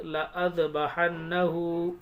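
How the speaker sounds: slow recitation of "लअज़बहन्नहु" with a short ल; unstretched लाम. Shown as a demonstration. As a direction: keep the first ल short in "लअज़बहन्नहु", ending held. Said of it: "ऐसे पढ़ेंगे". ("लअज़बहन्नहु" में ल छोटा, धीमी तिलावत)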